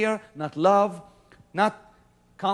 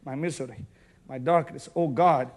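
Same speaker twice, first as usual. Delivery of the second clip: mock miserable prayer; 5 semitones lower than usual. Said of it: "When you say".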